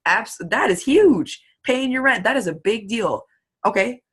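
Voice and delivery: impressed recruiter reassuring a prospect; amazed encouragement. Retold or imitated. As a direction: react like their goal is huge. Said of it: "and I'm like".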